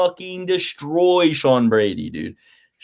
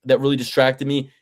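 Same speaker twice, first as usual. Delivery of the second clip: mock Sean Brady. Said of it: "break myself of the Delco accent".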